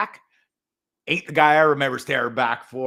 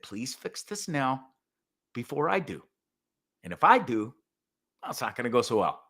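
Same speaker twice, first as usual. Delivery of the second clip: calm threat; 4 dB quieter than usual. Retold or imitated. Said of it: "rather calmly".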